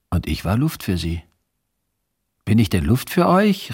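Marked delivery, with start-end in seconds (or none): 2.4-3.7 higher, raised protest; indignant call. A narrator's reading. Ignored child calling out to both adults, indignant. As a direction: call out to be noticed. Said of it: "rief ich".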